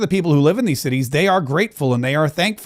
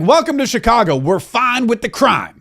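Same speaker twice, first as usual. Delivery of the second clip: higher, slowed mock welcome slogan; mock city motto; 5 semitones higher than usual. Host mocking Chicago's leaders, sarcastic slogan. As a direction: sell it like a sarcastic tourism ad. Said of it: "that should be like".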